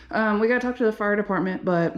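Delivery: winded, talking between breaths; breathless while touring. Real, not acted. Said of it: "God, I'm getting out of breath talking".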